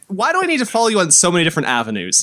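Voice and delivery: rushed complaint slowing into disbelief; exasperated. Retold or imitated. Podcaster complains about being asked to follow everywhere, exasperated. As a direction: race the question, then stretch out the verdict. Rants at many follow requests.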